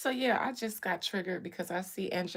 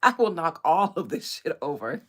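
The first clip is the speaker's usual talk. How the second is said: defiant millennial; 5 dB louder than usual. Retold or imitated. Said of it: "the millennials said".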